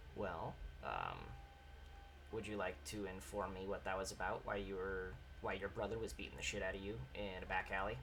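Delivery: hushed, low, very quiet and soft tone. A character at the bar slides next to another, in a hushed tone. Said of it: "kind of in a hushed tone goes".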